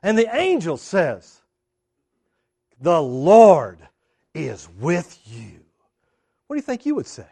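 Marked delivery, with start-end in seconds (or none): 2.8-5.6 drawn-out, weighty announcement; angel's proclamation. Acted. Angel greets Gideon, solemn proclamation. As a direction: start loud and let it drop low, slowly.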